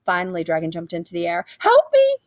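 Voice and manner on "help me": very high, loud scream for help; terrified scream. A narrator's reading. Dragon scared by growls in the woods, screaming. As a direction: shriek in panic. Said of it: "he screamed".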